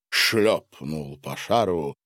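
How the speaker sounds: ordinary delivery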